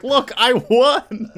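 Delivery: high, loud drawn-out victory cry; hammed-up villain boast; triumphant gloating. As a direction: crow it out, stretching the words. Kraven gloats over caged Vermin.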